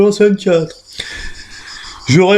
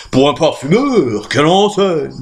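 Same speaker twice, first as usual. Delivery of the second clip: admiring. Acted.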